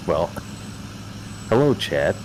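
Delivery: rusty tin can voice; hollow tinny robot-like greeting; inside metal tank. Pretend. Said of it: "In my rusty tin can voice".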